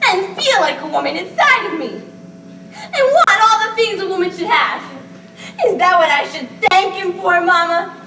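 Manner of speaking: rising distress, the words slowing as she pleads; near-hysterical teary laugh; laughing through tears. Acted. Bella's outburst about being a woman.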